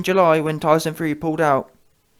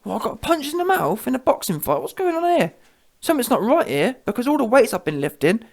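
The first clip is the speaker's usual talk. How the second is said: mock shock; 7 semitones higher than usual. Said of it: "He thought".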